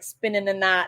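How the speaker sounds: put-on light Southern accent, run into one word; Southern drawl. Quoting the cat meme to a co-host, light Southern accent. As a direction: say it Southern, words slurred together. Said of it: "like, Southern".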